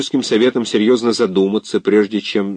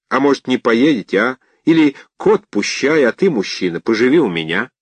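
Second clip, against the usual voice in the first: heartfelt; 3 semitones higher than usual. Acted. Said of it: "сказано так сердечно".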